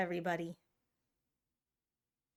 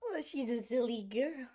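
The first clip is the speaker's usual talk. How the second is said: higher cooing pet voice; 7 semitones higher than usual. Real, not acted. Streamer cooing over her cat on her lap. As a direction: coo over the cat fondly.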